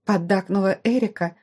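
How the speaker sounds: usual speaking voice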